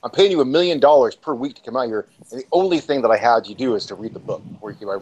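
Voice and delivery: retold exasperated rant; flipping out. Director berates his star over the unread book, flipping out. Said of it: "Francis flips the fuck out".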